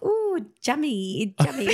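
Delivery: "jummy" with a J sound for yummy, pitched high; mum's "jummy". Retold or imitated. Mum at birthday desserts, "jummy" with J for Y. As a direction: imitate mum cooing "jummy", slow and high. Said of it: "Instead of yummy".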